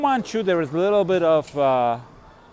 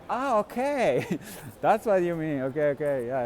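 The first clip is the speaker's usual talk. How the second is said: laughing realisation. Retold or imitated. To the Italian guy, laughing as he finally understands. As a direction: laugh through it as the penny drops.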